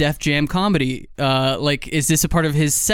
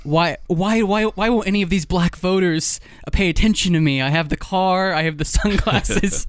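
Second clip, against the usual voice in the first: put-on whiny kid asking why; 4 semitones higher than usual. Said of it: "Biden is gonna prove himself to be the supreme gentleman".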